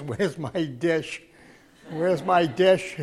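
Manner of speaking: slow, lightly imitated Italian old man's broken English; a hint of an old Italian man's accent, asking slowly. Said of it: "he said it in broken English".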